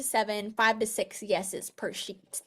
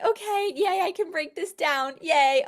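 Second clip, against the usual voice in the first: mock excitement; 5 semitones higher than usual. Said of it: "Raise your hand if you're like".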